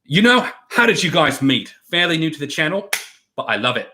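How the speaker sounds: put-on British accent in clipped, broken bursts like Gordon Ramsay; imitating a British celebrity chef; Gordon Ramsay impression. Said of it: "like, Gordon Ramsay, where he's like".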